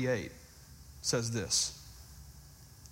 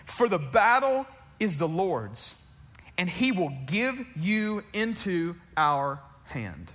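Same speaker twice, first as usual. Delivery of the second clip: David's battle cry; slower than usual. Acted. David's speech continues, slower.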